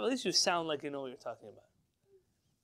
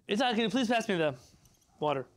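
odd delivery; 3 semitones higher, 4 dB louder than usual. Shown as a demonstration. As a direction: say it oddly, sing-song. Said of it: "Why are you talking like that".

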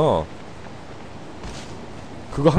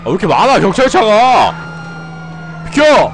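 being chased; 6 semitones higher, 5 dB louder than usual. Real, not acted. Police cars chasing him.

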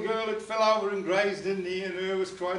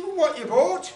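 mock shouted question; 8 semitones higher, 8 dB louder, slower than usual. Husband questioning in puppet quarrel.

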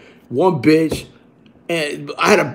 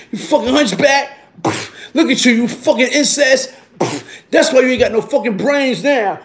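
higher-pitched mock yell; retold raging insults; 4 semitones higher than usual. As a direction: act out berating someone between blows. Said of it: "Wailing on her".

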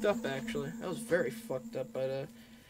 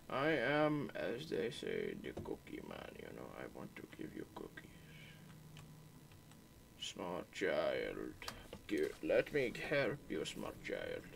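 hammed-up fake Indian accent, much lower; bad Indian accent; 10 semitones lower, 4 dB quieter than usual. Killer coaxes the small child in a mock Indian accent. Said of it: "Why am I talking like a fucking shitty Indian accent".

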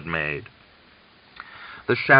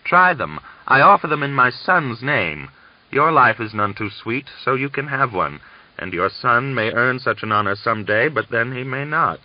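angry taunting; 5 semitones higher, 4 dB louder than usual. Acted. Angry old man taunting.

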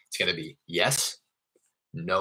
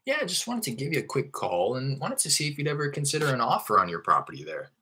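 higher, upbeat caller asking about selling; friendly sales pitch; 5 semitones higher than usual. Shown as a demonstration. Investor asking an owner about selling, breezy and upbeat. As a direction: pitch it light and easy. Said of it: "my intro".

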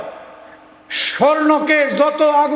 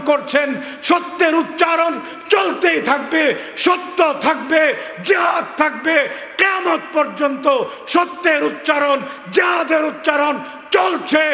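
rallying shout; 2 semitones higher than usual. Real, not acted. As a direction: shout it out so the crowd rises. Preacher rallying the crowd. (জনতাকে উদ্দীপ্ত করা উচ্চস্বরে স্লোগানধর্মী ঘোষণা)

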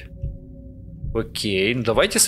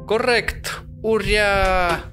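excited; 10 semitones higher, much slower than usual. Real, not acted. Code accepted, cheering.

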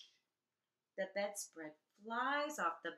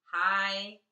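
excited; 12 dB louder than usual. Acted. Naming high feelings, loud.

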